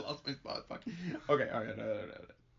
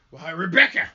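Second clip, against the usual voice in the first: loud, higher stage voice; theatrical declaiming; 4 semitones higher, 10 dB louder than usual. Acted. Minister appeals to Rebecca about their troubles, declaiming. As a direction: declaim it grandly, swelling upward. Acted line of the play.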